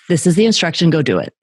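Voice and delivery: firm dad tone. Retold or imitated. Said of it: "that tone that says".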